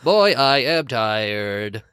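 slow hammed-up old man. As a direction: drag it out like a tired old man. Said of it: "Need to get into my old man voice".

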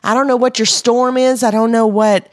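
rally them to stop hesitating and go all in; fervent exhortation. Real, not acted. Exhorts the audience to act.

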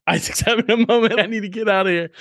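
high, quick mock of a flustered woman; lightly hammed-up therapist backing out of the room; imitating the massage therapist. Massage therapist walks in on crying Isaac, high flustered mock voice. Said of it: "And she's".

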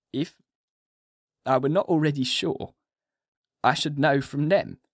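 a dazed, feeble madman pleading; weak patient Renfield. A narrator's reading. Renfield speaks on.

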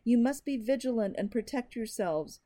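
loud, high, desperate shout. Acted. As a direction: shout it while being dragged away. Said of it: "shouting now".

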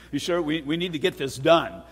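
imitated Iranian accent, lightly done. Iranian owner asking his electrician again, imitated Iranian accent. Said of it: "That's my Iranian accent".

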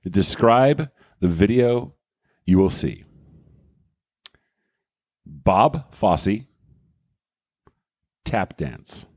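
slow, portentous reveal with long pauses; theatrical announcement. Acted. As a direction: dole it out phrase by phrase for suspense. Theatrically announces his video pick.

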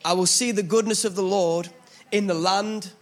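measured, solemn psalm reading; scripture reading. Acted. Pastor to church, reading the psalm with reverence. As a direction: read it as a heartfelt prayer.

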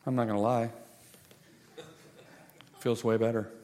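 low, soft deadpan reply; understated admission. Acted. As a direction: admit it quietly, with little fuss. Server's understated report of healing.

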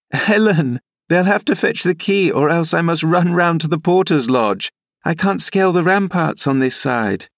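put-on high, girlish young lady's voice; laughing exclamation. Young lady calling to her nurse over the wall, exclaiming in a high voice. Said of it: "I heard her laughing and exclaiming".

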